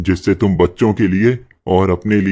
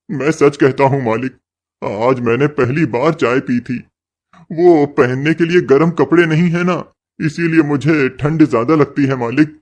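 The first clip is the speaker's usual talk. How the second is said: higher, begging servant; pleading; 6 semitones higher than usual. Acted. Servant begging his boss not to cut his pay, higher pleading voice. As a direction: plead with the boss for full wages.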